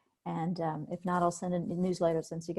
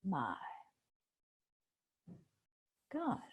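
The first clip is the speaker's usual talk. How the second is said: slow paced naming; much slower than usual. Shown as a demonstration. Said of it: "But if you say".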